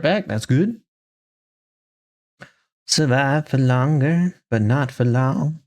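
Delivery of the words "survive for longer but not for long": put-on slow, lightly spooky old man. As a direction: drawl it out like a creepy old man. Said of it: "like, a weird, spooky old man voice".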